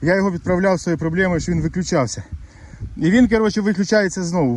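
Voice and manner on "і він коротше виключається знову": annoyed. Real, not acted. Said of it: "такий злий".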